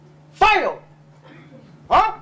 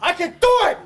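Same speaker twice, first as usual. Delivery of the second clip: firm demo with a push on DO; projected voice. Shown as a demonstration. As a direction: throw it out there like a coach. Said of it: "Throw it out there".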